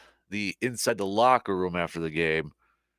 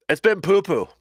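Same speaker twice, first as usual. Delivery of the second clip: playful emphasis; 8 semitones higher, 6 dB louder than usual. Real, not acted. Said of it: "as we like to say".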